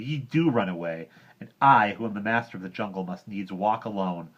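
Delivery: angry complaint. Acted. Mowgli rebukes Bagheera, loud angry boy voice. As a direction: scold him with rising anger.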